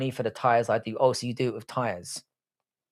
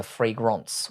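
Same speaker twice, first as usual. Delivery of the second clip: "fragrance" in a mock French accent; Frenchify "fragrance" with a nasal "-ronce" ending; 3 semitones lower, 4 dB quieter than usual. Shown as a demonstration. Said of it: "say it in a French accent".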